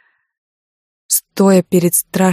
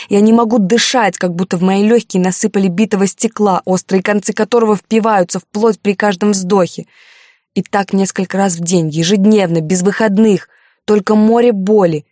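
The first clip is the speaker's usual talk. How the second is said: raised, louder, pained rush of words; anguished outpouring; 3 semitones higher, 4 dB louder than usual. Acted. Heroine tells Alexander her suffering, raised anguished voice. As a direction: pour out the pain, building.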